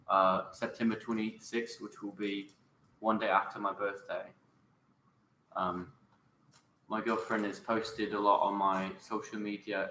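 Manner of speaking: lightly done British accent on request. Shown as a demonstration. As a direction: answer in a British accent, in an even conversational voice. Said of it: "answer that in British".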